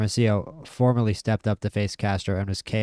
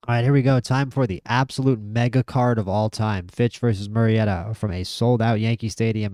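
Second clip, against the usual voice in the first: louder, hyped-up intro to the big card; 4 dB louder than usual. Real, not acted. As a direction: announce it like a fight-night host. Hyping the mega card.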